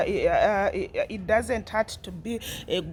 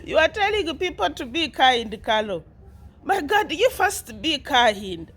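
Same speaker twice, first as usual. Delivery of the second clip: laughing; 4 semitones higher than usual. Real, not acted. Laughing while scolding Carol.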